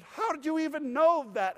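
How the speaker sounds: hoger en luider, verbaasd uitgeroepen; astonished question. Retold or imitated. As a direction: vraag het alsof je het niet kunt geloven.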